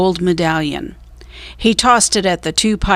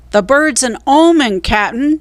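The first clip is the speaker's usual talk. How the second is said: shouted; 6 semitones higher, 3 dB louder than usual. A narrator's reading. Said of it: "shouted Stinky".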